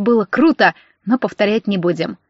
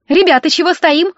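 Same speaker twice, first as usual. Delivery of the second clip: high, lilting call to friends; lightly sung-out question; singsong call; 6 semitones higher, 4 dB louder than usual. A narrator's reading. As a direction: sing it out cheerily as you pass. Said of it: "пропела она".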